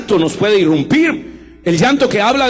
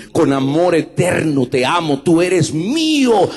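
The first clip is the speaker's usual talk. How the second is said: tender promise. Acted. A hint of a loving father, unhurried. God's tender words voiced.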